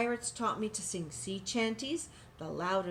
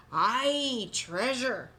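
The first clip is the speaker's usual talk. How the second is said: hearty shout, louder and higher; pirate crew shout; 4 semitones higher, 6 dB louder, much slower than usual. Acted. Crew shouting about the treasure. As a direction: cheer it like greedy pirates. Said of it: "the others shouted".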